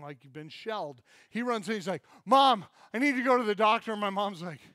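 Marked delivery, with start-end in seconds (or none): 2.3-3.9 high, loud call to mom; wounded kid calling out urgently; urgent plea. Retold or imitated. Brother runs into store.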